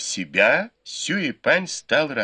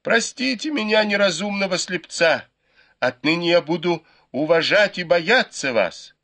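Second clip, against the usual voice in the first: wailing plea; 7 semitones higher than usual. A narrator's reading. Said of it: "завопил Сюэпань".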